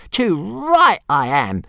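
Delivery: high, loud grumpy dragon voice. Acted. Dragon grumbling his boast to Hiccup, high and grumpy. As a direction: huff it out, offended. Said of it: "said Toothless grumpily".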